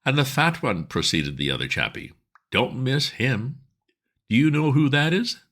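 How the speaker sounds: loud, high soapbox tirade against the idle rich; bearded speaker denouncing two gentlemen to his audience; ranting street orator. Acted. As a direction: harangue the crowd like a fiery agitator. Orator turns on Bittlesham.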